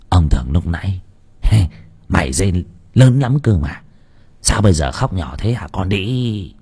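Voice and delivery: low gloating landlord; leering old master. Acted. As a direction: taunt the girl cruelly. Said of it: "Lão cười hành hạch".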